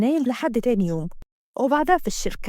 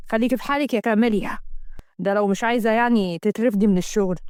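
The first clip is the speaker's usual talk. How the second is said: lightly voiced firm husband; a hint of a stern man's voice; stern boss; 2 semitones lower than usual. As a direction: warn her off as an annoyed boss.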